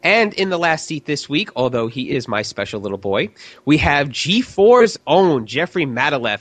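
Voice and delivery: slow, showy guest introduction; game show host voice. Acted. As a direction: draw out the name like a quiz show host. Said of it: "I have my game show host voice on today".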